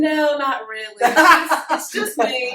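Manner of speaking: playful Southern belle drawl; coy Southern character voice; Southern accent. Acted. Answering the interviewer about her beauty, Southern accent.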